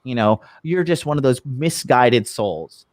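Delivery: mock condescension. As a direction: imitate someone talking down with fake pity. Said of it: "they were condescendingly speaking to me".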